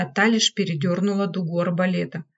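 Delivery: ordinary delivery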